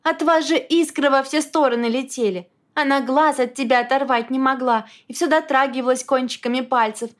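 storming. A narrator's reading. Wife raging on about Kira.

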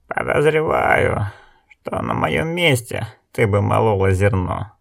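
slow, drawn-out 'I suspect', resentful; mildly offended, drawing out the first word; half angry, half hurt. Acted. Village elder answers the woman back, half angry, half hurt. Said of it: "то ли рассерженно, то ли обиженно".

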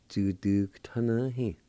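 Tudugtanahi joined into one word, a little slow; pronunciation demo. Shown as a demonstration. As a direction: run the syllables of Tudugtanahi together carefully. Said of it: "like this".

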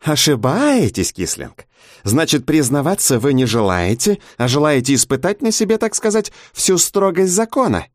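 a sneering interrogator savouring each threat; smug investigator. A narrator's reading. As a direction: investigator toying with his suspect.

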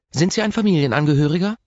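a strict receptionist nurse; stern nurse. Acted. Reception nurse questioning the visitor, strict.

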